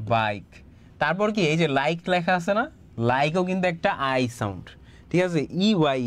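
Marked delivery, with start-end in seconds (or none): 0.1-0.5 বাইক said low with a clear ai glide and a falling end; teacher models বাইক for pupils; model word. Shown as a demonstration. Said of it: "এখানে কিন্তু যাবে বাইক".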